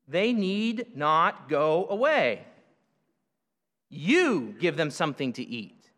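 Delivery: slow, measured reading of the verse; unhurried scripture reading. Acted. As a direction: read the verse with weight and pauses.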